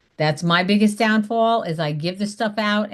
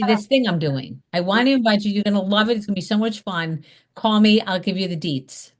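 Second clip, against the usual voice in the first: excited invite. Shown as a demonstration. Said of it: "They need to hear that excitement in your voice".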